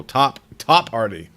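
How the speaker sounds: Top, top Artie drawn out slowly, TOP leaned on; slow playful stress. Acted. Streamer teasing a viewer's joke from chat, slow playful stress. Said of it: "Whoa, careful".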